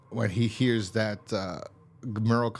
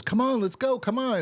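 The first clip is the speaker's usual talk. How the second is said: put-on much higher, urgent kid voice; high-pitched Carl; 13 semitones higher than usual. Telling the episode, voicing young Carl high. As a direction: jump way up in pitch for the boy. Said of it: "and he goes".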